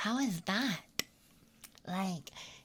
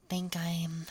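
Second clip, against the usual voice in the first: whispering. Acted. ASMR whisper.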